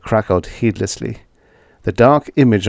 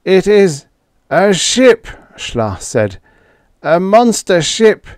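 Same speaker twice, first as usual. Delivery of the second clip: higher alien voice, incredulous; alien Schla; 10 semitones higher, 5 dB louder than usual. A narrator's reading. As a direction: play the alien in disbelief.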